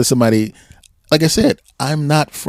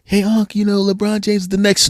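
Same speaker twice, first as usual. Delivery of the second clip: imitating nephew; 10 semitones higher than usual. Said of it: "he goes".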